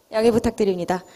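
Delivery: nervous laugh. Real, not acted. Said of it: "제가 좀 긴장을 해가지고".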